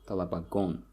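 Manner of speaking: talabagon stressed on gon; talabagon, weight on the final syllable; stress on last syllable. Shown as a demonstration. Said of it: "the stress here falls on the".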